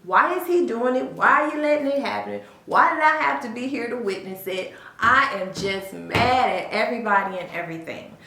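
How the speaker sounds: mildly heated, indignant questions; angry questioning. Acted. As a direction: voice an angry kid's protest, lightly acted. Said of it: "an angry person".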